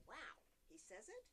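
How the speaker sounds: slow, lightly surprised "wow", with a rise at the end; mock surprise. Shown as a demonstration. Teacher demonstrates a surprised reply. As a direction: show a little surprise for the lesson. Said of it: "and you're surprised".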